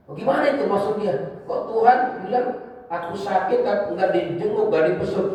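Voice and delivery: high, puzzled questioning; bewildered crowd. Retold or imitated. Confused people on Judgment Day ask God, high baffled voice. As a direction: imitate baffled people asking what it means. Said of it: "penduduk mahsyar bingung semua".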